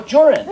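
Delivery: "urine" starting with a ch or j sound, like "chorin"; dad's pronunciation. Retold or imitated. Son repeating his dad's word, "urine" said as "jurine". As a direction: say "urine" as "CHOR-in". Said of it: "That's what he, my dad would".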